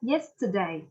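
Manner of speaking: "yesterday" with YES prominent, falling away; stress on first syllable. Shown as a demonstration. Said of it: "Number one".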